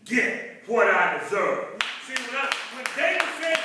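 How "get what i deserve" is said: slow, drawn-out shout of thanks; preaching. Real, not acted. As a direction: cry out your thanks, stretching the words.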